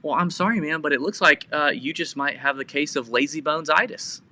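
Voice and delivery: lightly patronizing imitation; mildly condescend as if to a nine-year-old; talking to a child. Cart vigilante answering cussing lady, mock talking to a child. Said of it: "talks to them like he's a nine-year-old".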